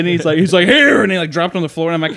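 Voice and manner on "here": high, loud one-word shout; hammed-up exasperated yell; mock angry dad. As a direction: imitate a father out of patience. Dad drops soap angrily.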